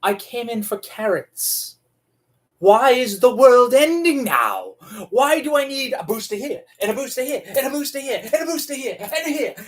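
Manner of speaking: exasperated rant climbing in pitch; exasperated shopper. Retold or imitated. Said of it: "and you're just like".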